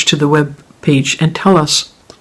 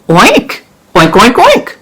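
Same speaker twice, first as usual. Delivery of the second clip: pig oinks; 5 semitones higher, slower than usual. Acted. Farmer keeps oinking.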